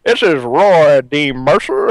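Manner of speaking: slow, drawn-out redneck drawl; redneck accent. Acted. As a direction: imitate a prank caller in a thick redneck accent. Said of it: "really, uh, redneck accent".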